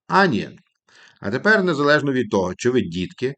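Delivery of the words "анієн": "Анієн" as AH-nyen, falling; teacher's model word; model pronunciation. Shown as a demonstration. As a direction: say "Анієн" clearly for students to repeat. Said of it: "повторяйте таким чином".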